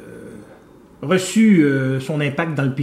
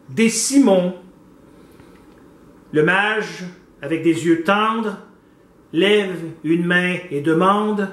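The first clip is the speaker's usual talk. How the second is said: measured poetic declamation with pauses; poem recitation; 2 semitones higher, 3 dB louder, slower than usual. Acted. Host recites a poem on the painting Le Mage, declaimed. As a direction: recite each phrase apart, drawing out the line endings.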